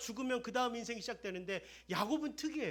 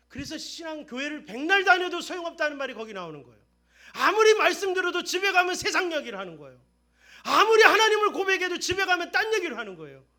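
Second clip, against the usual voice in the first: louder, higher rebuke of empty faith; full-force preaching; 10 semitones higher, 18 dB louder than usual. Acted. Pastor rebuking churchgoers who talk worldly at home, full-force preaching. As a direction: thunder it at the congregation.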